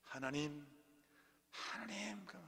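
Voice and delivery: playful Gyeongsang voice of God; Gyeongsang dialect. Acted. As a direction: exclaim it in a put-on Gyeongsang accent. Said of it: "옛날에는 경상도로 하나님 많이 말로 했거든요". (경상도 사투리 흉내)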